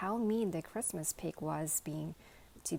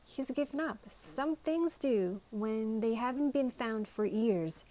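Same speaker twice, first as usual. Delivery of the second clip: sad; 4 semitones higher, 4 dB louder than usual. Acted. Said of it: "said the sheriff sadly".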